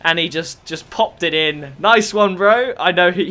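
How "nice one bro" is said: sarcastic praise, pitched up a little; mock congratulation. Real, not acted. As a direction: praise your mate without meaning it. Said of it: "he knows I'm being sarcastic".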